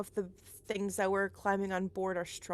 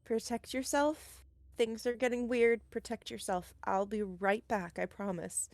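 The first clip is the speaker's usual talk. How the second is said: earnest reassurance. Acted. Husband leaves armed wife, promising return.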